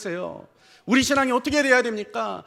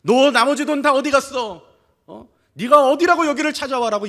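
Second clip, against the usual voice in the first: louder mock scolding, pushing harder; the imagined father escalating on his prodigal son, mock louder; mock angry demand; 3 semitones higher, 5 dB louder than usual. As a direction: raise it into a hammed-up angry father. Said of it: "아버지가 뭐라고 이야기합니까?".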